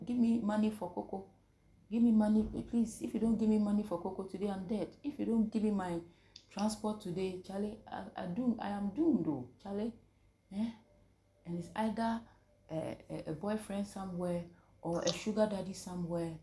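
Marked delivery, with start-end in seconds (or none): 0.1-9.9 lightly acted begging, higher and softer; a hint of needy wheedling, pitched up; mock pleading. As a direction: plead half-heartedly like a girl wanting pocket money. Acting a girl begging for money.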